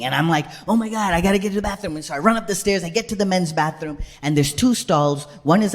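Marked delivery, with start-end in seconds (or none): 0.7-2.0 fast comic retelling of panic; panicking. Retold or imitated. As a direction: rush it out in mock panic. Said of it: "like, panicking".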